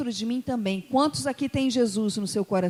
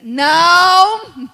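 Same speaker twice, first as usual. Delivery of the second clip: huge drawn-out mock shout; emphatic refusal; 7 semitones higher, 16 dB louder than usual. Guest refusing prayer in every language, hammed-up loud shout. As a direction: bellow the refusal, high and very loud. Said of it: "Aí ela respondeu em inglês".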